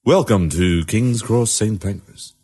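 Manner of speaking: slow station announcer voice; Tannoy announcer. Retold or imitated. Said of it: "recreate the voice of the Tannoy man".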